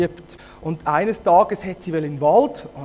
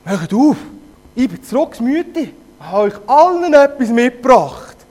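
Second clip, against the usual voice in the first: helium wolf voice; 5 semitones higher, 7 dB louder than usual. Acted. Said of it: "Stimme, wie wenn er Helium".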